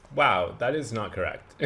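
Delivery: taken aback at a wrong answer; surprised. Real, not acted.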